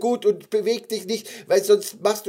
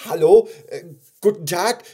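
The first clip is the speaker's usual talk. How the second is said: high, loud, hesitant hello; nervous greeting; 6 semitones higher, 11 dB louder than usual. Acted. Gummy bear greets the huge bear, nervous high call. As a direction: gather courage to greet someone frightening. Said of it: "Sein Herz fing fürchterlich zu klopfen an".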